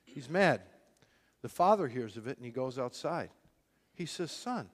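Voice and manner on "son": soft plea. Retold or imitated. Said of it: "he pleads with him".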